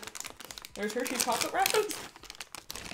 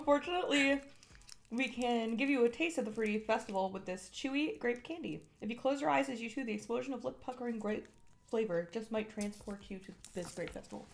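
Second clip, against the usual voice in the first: ad read. Acted. Reads the product script.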